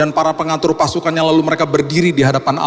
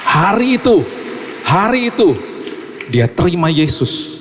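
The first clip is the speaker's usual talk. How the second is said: preaching climax; 5 semitones higher, slower than usual. Acted. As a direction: ring it out like a climax.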